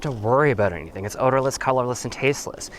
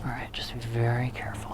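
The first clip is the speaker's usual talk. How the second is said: whispering; 5 dB quieter than usual. Real, not acted. Secretive cooking, hiding used butter.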